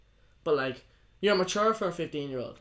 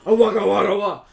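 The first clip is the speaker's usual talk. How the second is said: mock wailing; 9 dB louder than usual. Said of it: "I'm not saying go like".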